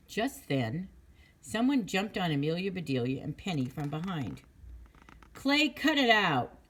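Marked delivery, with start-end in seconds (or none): 5.3-6.6 high, loud, slow protest; a kid shouting at her playful friend; loud scolding. Acted. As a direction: tell him off loudly. Kids jumped from behind, scolding.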